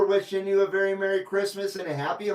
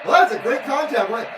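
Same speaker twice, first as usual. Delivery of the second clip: excited shout; 4 semitones higher, 7 dB louder than usual. Real, not acted. Laughing after getting confused.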